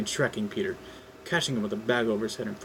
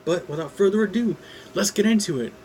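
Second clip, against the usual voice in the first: upbeat; 9 semitones higher, 6 dB louder than usual. Real, not acted. Upbeat intro to reading.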